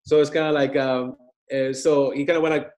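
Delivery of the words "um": ordinary delivery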